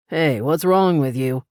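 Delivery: lightly voiced man, offended; a hint of a bewildered man; indignant stranger. A narrator's reading. Stranger offended at Paris, lightly voiced.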